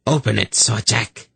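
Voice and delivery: unyielding priestess voice; relentless order. A narrator's reading. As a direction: insist without giving way. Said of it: "ordered relentlessly".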